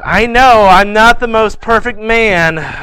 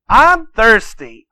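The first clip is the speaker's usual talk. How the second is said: put-on drawn-out, higher child's complaint; insistent thirsty boy; 5 semitones higher, 3 dB louder, much slower than usual. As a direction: stretch it out slowly, like a nagging kid. Boy insists a second time.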